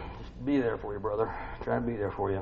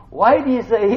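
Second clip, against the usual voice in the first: high, loud mocking yell; full-force preaching shout; 17 dB louder than usual. Real, not acted. Preacher yelling to the congregation about road rage. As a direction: shout it out, scorning the hypocrite.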